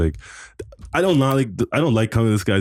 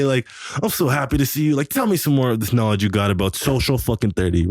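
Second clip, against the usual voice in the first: mock sweet greeting; 3 semitones higher than usual. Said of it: "I'm like".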